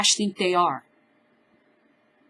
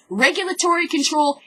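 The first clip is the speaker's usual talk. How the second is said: ordinary delivery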